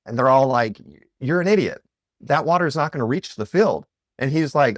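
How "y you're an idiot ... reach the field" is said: higher, louder scornful jeer; mocking crowd. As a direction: scoff at him like a fool. Crowd mocks Guru Nanak.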